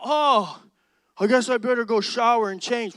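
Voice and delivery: loud but unhurried reply; unbothered late friend. Retold or imitated. Late friend casually answering the impatient group, loud. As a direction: act like there is all the time in the world.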